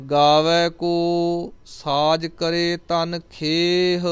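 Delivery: drawn-out, chanted reading of the line; slow devotional chant; slow scripture recitation. Acted. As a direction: recite it slowly and reverently. Recites gurbani slowly.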